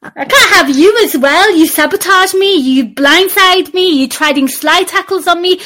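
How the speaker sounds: high, hammed-up accusations; mock outrage. Host accusing co-host of sabotage, mock outrage. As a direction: pile up playful grievances, pitched high.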